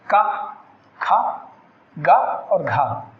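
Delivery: slow, careful का, खा, गा, घा, each syllable set apart; articulated consonant demo. Shown as a demonstration. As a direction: say का खा गा घा slowly for students to copy. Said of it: "जैसे". (व्यंजन ध्वनियों का धीमा उच्चारण)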